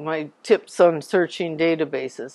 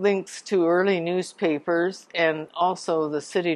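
normal talking voice

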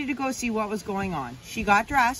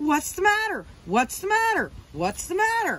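high, startled shouting; 8 semitones higher than usual. Luke's father jumps out of bed after Luke whacks him, yelling. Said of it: "His father jumped out of bed and yelled".

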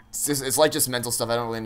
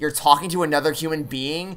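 high, clingy, possessive, obnoxious voice. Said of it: "makes me sound like I'm just some clingy asshole who's like".

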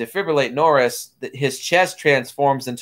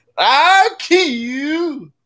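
put-on very high, crazed, angry old man voice, drawn-out "you"; 3 dB louder than usual. Recapping a story, quoting a man having a mental breakdown, crazy, angry old man voice. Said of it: "his crazy, angry old man voice".

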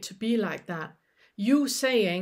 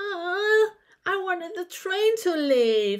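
over-exaggerated whiny toddler voice, high and crying; 8 semitones higher than usual. Showing how to exaggerate disappointment about a missed train, in a whiny little toddler voice. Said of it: "Make that whiny little toddler voice".

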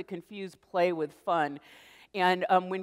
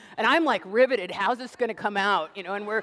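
ordinary delivery

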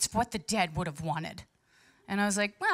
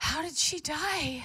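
mock gasping, much higher pitch; 7 semitones higher than usual. Retelling how people react on hearing you have a dead sibling, imitating gasping.

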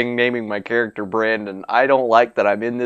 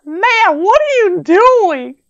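put-on female voice, much higher and louder; 5 dB louder than usual. Playing a game, the speaker voices the girl they crashed into, in a put-on female voice. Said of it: "I'm really good at this female voice thing".

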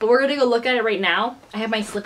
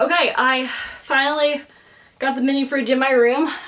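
winded, short of breath, panting; 3 semitones higher than usual. Filming herself after carrying a mini fridge up the stairs, out of breath. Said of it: "I'm really out of breath".

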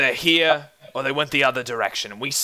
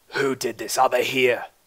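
gruff, rough-edged, heavy thug voice. Narrator voicing one of the voices heard through the wall: gruff voice. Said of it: "one of the gruff voices say".

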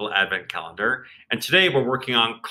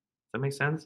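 ordinary talk, nothing marked

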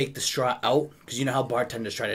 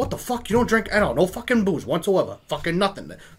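put-on lively, animated, pitched-up Irish accent; 7 semitones higher, 3 dB louder than usual. Retelling a talk with an Irish customer: imitating his Irish accent. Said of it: "I'm gonna talk like how he does".

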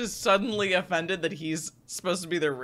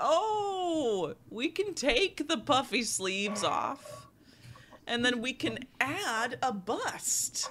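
very slow, soft, cajoling, sweet coaxing voice; 5 semitones higher, 5 dB quieter than usual. Describing a mother talking her child into a dress: imitating mom's coaxing tone. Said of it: "In the same exact tone your mother uses to convince you".

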